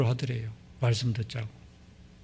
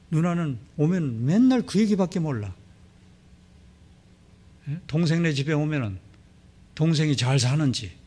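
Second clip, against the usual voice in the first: harsh angry scolding; 2 semitones higher than usual. Retold or imitated. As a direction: scold the sister coldly, then shout her out. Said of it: "아주 매몰차게 막 얘기했대요".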